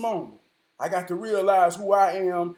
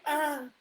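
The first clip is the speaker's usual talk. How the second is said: short, higher-pitched "uh"; imitated pant; 5 semitones higher, 5 dB quieter than usual. Man imitating the nun going into a pant, panting. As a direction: mimic her one startled pant. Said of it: "She went into a pant".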